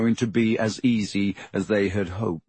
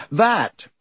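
stiff reply; 9 semitones higher, 4 dB louder than usual. A narrator's reading. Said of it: "he said stiffly".

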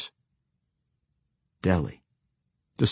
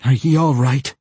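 Josie voice; 4 semitones higher, 5 dB louder than usual. Acted. Josie calling to Deli.

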